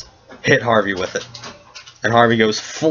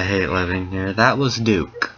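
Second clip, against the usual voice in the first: exasperated groan; 2 semitones lower, slower than usual. Acted. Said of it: "She covers her face with her palm".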